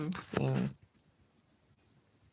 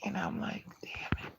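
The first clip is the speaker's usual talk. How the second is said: whisper; 6 semitones higher, 8 dB quieter than usual. Retold or imitated. Whispered retold reaction.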